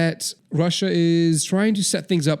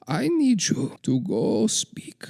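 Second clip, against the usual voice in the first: slow secretive whisper; 4 semitones higher, 3 dB quieter, slower than usual. Acted. Putin to aide Igor, slow secret whisper. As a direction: lean in and whisper the order slowly.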